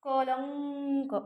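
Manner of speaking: कलंक drawn out very slowly, nasal before क held; slow demo pronunciation. Shown as a demonstration. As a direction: stretch कलंक slowly to show the ङ sound. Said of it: "इथं पण ह्याच ग चा उच्चार होतोय बघा". (कलंक सावकाश, अनुस्वार लांबवून)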